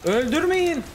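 high-pitched cry to teammates; urgent plea. Real, not acted. Gamer begging team as game slips away, urgent plea. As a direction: call out desperately, pitch well up.

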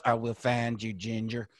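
lightly voiced, low mock-sinister promise; understated imitation of a threatening tycoon; Jerry Jones impression. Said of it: "you're doing some Jerry Jones".

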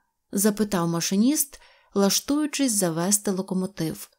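plain reading voice

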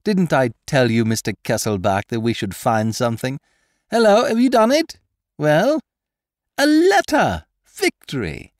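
very high, loud victory cry; shouting in triumph. Acted. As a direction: crow in triumph as the letter appears. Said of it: "he shouted in triumph".

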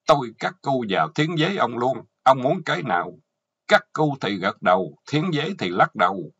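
loud, threatening wife; stern verdict. Acted. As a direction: pronounce the sentence forcefully. Wife passes sentence on bound husband. (vợ tuyên án, giọng to dằn mặt)

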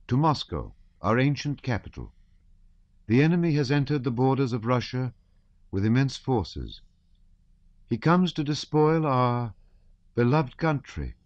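high, careful reading voice; a girl reading the manifesto aloud, painstaking and high; high-pitched reading. A narrator's reading. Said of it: "in her high-pitched voice".

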